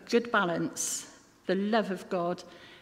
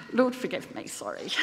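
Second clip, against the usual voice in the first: laughing apology. Real, not acted.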